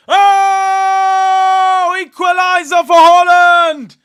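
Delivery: huge roaring shout at the equaliser; explosive goal call. Real, not acted. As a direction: scream it out, way up high. Goal celebration on stream.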